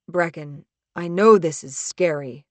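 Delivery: mildly soothing, measured; calm and soft. Acted. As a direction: gently talk down a panicking friend. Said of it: "His voice is calm and soft".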